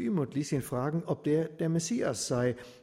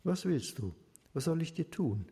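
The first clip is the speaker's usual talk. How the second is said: warm and kind. Acted. Jesus asking the blind beggar what he wants, warm. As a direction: ask him kindly and gently. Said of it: "so auffallend warm und freundlich".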